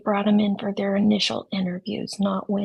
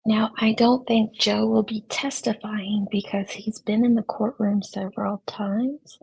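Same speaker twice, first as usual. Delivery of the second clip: golf commentator. Shown as a demonstration. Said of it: "I forgot to use my golf voice".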